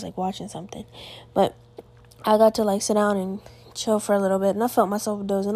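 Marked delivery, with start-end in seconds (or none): 0.0-0.9 hushed whisper so the family won't hear. Real, not acted. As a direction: drop to a whisper mid-sentence. Mom downstairs, keeping voice down.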